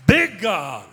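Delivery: BIG shouted high and very loud; huge exultant shout. Real, not acted. Preacher magnifying God before congregation, exultant shout. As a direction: blast out BIG, falling away on God. Big versus little, acted by voice.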